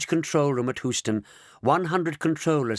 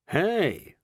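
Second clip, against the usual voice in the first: yell; 7 semitones higher than usual. Acted. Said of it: "yelled Charla".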